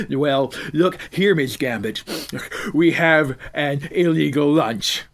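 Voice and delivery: slow, loud, sneering guard; gruff guard voice. Acted. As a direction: drawl it out like a crooked guard.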